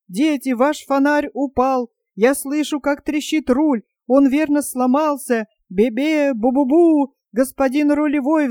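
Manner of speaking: terrified wailing. Acted. Panurge, terrified in the storm, begs his friends for help. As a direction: wail like a man sure he will drown. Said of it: "перепуганный, полумёртвый от страха".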